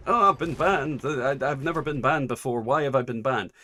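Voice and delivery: lightly hammed-up injured innocence; mock protest. Streamer imitating a banned player's Twitter post, mock protest. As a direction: open high and loud, then ease off.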